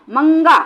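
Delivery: मंगा with the nasal ng sound through the nose; nasal anusvar. Shown as a demonstration. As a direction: say मंगा letting the breath ring in the nose. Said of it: "भिकमंगा". (नाक से अनुस्वार वाला मंगा)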